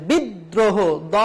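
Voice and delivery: বিদ্রোহ with দ doubled, then দ alone; doubled d demo. Shown as a demonstration. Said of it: "দ্বিত্ব উচ্চারণ হয়েছে". (দ্বিত্ব দ আলাদা করে দেখানো)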